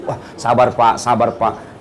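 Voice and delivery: low, soft reassurance; gently calm a grieving man, voice dropped; soothing consolation. Retold or imitated. Preacher retells consoling his widowed friend, soothing.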